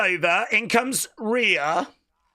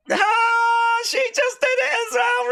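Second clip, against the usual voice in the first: high, louder exclamation; surprised; 3 dB louder than usual. Real, not acted. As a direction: gasp at the move. Surprised at move.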